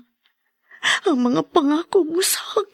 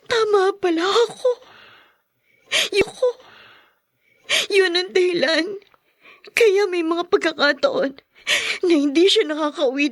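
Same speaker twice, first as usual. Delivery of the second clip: tearful realization; 5 semitones higher than usual. Acted. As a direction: voice catching with tears. Wife learns husband's affair. (naiiyak na pagkatanto)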